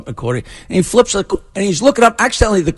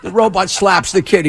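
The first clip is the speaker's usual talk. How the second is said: usual speaking voice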